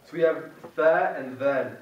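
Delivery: "tha" and "thal" said slowly and carefully; slow, careful contrast of tha and thal; slow teacher demo of Arabic sounds; Arabic letter demo. Shown as a demonstration. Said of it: "The tongue is a bit more ahead".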